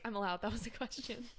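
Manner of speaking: mock indignant. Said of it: "You're like".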